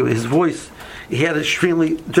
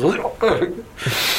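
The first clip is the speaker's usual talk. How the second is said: imitated outburst; 3 semitones higher than usual. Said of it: "let out this".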